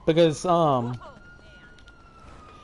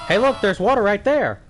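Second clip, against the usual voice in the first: loud eager call-out; excited shout; 5 semitones higher, 3 dB louder than usual. Real, not acted. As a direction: point it out excitedly. Spots water in game.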